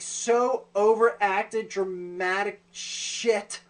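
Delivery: very slow, stretched-out emphasis; drawn-out disdain. Real, not acted. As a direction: drag out each word in scorn. Mocking the overacted line.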